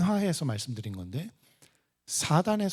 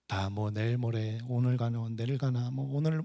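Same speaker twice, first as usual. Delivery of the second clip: softer, understated shrug in the voice; subdued, offhand imitation; mock resignation; 3 semitones lower, 4 dB quieter than usual. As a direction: lightly voice someone given up on tomorrow. Voicing resigned elderly believer's words.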